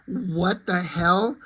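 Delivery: slow, drawn-out bafflement; incredulous reader reaction; mock disbelief. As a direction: stretch it out in baffled amusement. Reacting to absurd dialogue he read.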